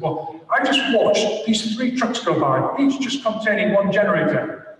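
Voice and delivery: a hint of an exasperated boss grilling his engineers; mildly angry boss. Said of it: "I'm mad".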